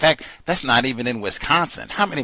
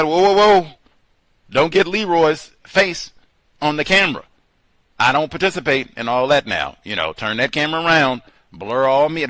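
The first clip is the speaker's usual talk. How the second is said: mock alarm; 4 semitones higher, 4 dB louder than usual. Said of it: "they pointed out".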